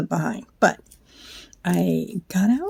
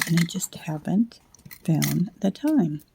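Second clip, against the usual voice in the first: whispering; 3 dB quieter than usual. Real, not acted. Late-night craft video, hushed.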